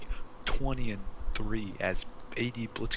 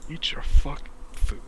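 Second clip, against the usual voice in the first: exasperated parent; 6 semitones higher, 5 dB louder, slower than usual. Retold or imitated. Quoting the audiobook line.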